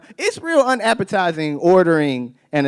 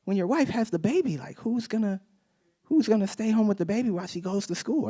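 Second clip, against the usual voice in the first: higher, puzzled coworker asking; 6 semitones higher, 4 dB quieter than usual. Retold or imitated. A coworker asking who will stay home with the baby, higher and puzzled. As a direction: play the confused coworker, pitched up. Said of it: "my coworker was just like".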